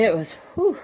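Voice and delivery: breathless after hiking; puffing from the hike; out of breath. Real, not acted. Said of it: "I'm still out of breath".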